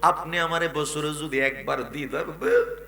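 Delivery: hammed-up weeping call in a preacher's chant; acted sobbing plea, half-sung; tearful pleading. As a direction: cry out to the Prophet, stretching the last vowels. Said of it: "চোখের পানি ছেড়ে কান্না করে ডাক দেয়া".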